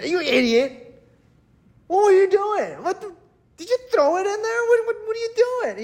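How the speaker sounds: very high, frantic berating; mock panicked scolding. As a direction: act out an exasperated, stammering telling-off. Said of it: "he could have panicked".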